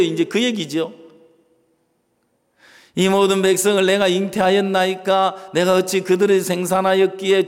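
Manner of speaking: steady, even Bible reading; scripture reading. Acted. Pastor reads Moses' complaint from scripture, even tone. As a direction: read the old verses evenly, like a lesson.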